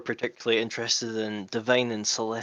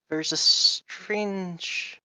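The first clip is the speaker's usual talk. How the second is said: put-on lizard accent; 8 semitones higher, much slower than usual. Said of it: "doing a lizard accent".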